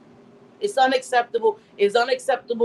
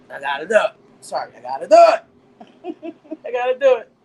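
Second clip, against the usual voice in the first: hammed-up catchphrase; 7 dB louder than usual. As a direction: belt it like a diva about to read someone. Hammed-up catchphrase before reading someone.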